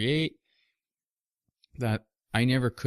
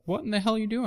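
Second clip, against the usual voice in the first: much higher, mock baffled old man; exasperated grandfather; 11 semitones higher, much faster than usual. Grandfather yelling at the kid in the backyard, hammed-up exasperation. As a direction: ham up a grandpa who can't believe what he's hearing. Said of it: "He's like".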